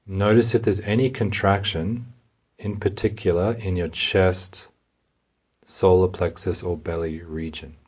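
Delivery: calm, unhurried guidance with long pauses; guided meditation. Real, not acted. Meditation guide helps listener notice anxiety in the body, calmly. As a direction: gently lead a listener inward, leaving room to feel.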